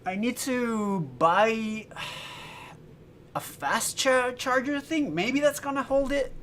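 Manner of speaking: high, slow, lightly put-on voice; a hint of a little wise creature; playful mock Yoda. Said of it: "everybody's saying I sound like Yoda".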